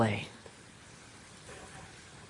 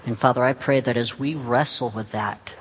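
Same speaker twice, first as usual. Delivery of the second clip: prayer. Real, not acted. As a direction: pray aloud, phrase by unhurried phrase. Leads a closing prayer.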